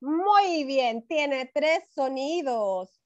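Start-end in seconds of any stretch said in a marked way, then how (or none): 1.1-3.0 slow, careful teacher explanation; slow explaining. Shown as a demonstration. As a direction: spell it out slowly for young kids. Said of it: "cuántos sonidos tiene". (lento, explicando con calma)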